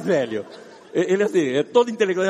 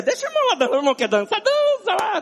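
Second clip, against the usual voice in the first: high mock tolerant thought; 12 semitones higher than usual. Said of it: "eu fiquei na minha".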